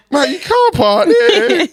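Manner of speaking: mock confrontation. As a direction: call out the driver in disbelief. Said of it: "you know when people".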